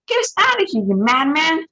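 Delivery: high, loud panicked scream. Acted. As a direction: scream at the madman to flee. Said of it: "screamed Grandma Josie".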